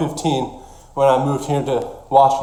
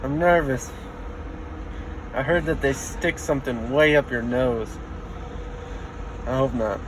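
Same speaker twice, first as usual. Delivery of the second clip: short of breath, wheezing; breathless and wheezy; slower than usual. Real, not acted. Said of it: "some pretty harsh wheezing".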